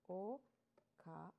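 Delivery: "Oka-" split into O, then ka, with a long gap; syllable by syllable. Shown as a demonstration. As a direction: spell out "Oka-" slowly in separate sounds. Breaking okane into syllables for learners.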